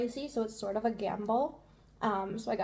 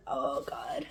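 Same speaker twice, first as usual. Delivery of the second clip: whispering; 2 semitones higher than usual. Real, not acted. Burning from pepper.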